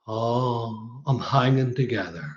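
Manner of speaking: a mild, downbeat, long-suffering mumble; imitating the glum way people answer; gloomy Northern Irish reply. A neighbour asked how he is, answering gloomily. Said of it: "we exaggerate the negativity with the tone of voice".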